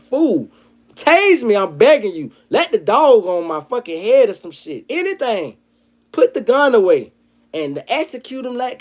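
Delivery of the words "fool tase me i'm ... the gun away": desperate begging. Acted. Voicing victim begging for life.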